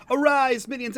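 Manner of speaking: high, loud opening summons; rally the minions with a mock-grand call; proclamazione scherzosa. Show opening, mock summons to viewers.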